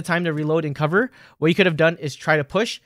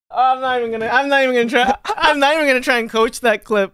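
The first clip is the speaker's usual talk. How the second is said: laughing disbelief; 8 semitones higher, 4 dB louder than usual. Real, not acted. Coach stunned by clip.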